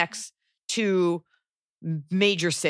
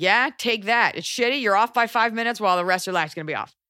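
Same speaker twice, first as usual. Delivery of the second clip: lightly acted, higher-pitched taunt; mock taunting; 4 semitones higher than usual. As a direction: play the universe gloating at you. Universe voiced taunting the listener.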